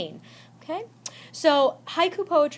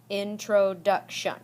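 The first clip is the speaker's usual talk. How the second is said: slow "introduction", four even beats; syllable by syllable; 2 semitones lower, slower than usual. Shown as a demonstration. Teacher repeating a word to count syllables, "introduction" slowly beat by beat. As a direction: sound out "introduction" as in-tro-duc-tion. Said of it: "four syllables".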